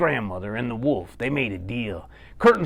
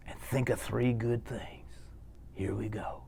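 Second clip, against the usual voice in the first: whispering; 3 semitones lower, 13 dB quieter than usual. Real, not acted. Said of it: "breathing exercise".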